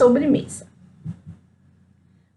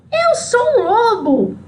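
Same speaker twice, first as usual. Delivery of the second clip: higher, slowed mock roar of the wolf; mock wolf yell; 7 semitones higher than usual. The wolf shouts at Chapeuzinho, hammed-up mock yell. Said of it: "E ele gritou".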